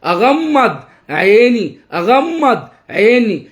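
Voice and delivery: أغمض عيني word by word, vowels stretched; drawn-out, sing-song أغمض عيني for a child to copy; slow modelling for repetition. Shown as a demonstration. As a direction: teach أغمض عيني slowly with a lilt. Models phrase for child to repeat.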